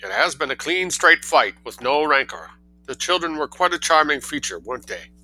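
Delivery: put-on high, loud New England accent. A pleased campaigner winding up the election, in a New England accent. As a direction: speak the close of the poll in a New England lilt, high and bright. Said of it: "I gave that a sort of New England accent".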